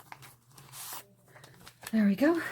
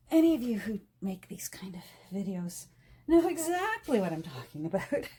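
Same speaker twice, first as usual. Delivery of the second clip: laughing whisper. Real, not acted. Laughing aside to fellow crafters.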